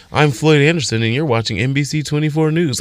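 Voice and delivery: smooth anchor read; lightly voiced news anchor intro. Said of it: "a news anchor persona".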